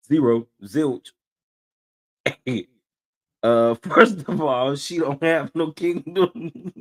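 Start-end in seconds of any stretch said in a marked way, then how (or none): 3.4-6.7 slow, sassy read with attitude; dragging the words out with attitude. Real, not acted. Reacting to a clip, reads the line with sass. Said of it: "I read that with such an attitude".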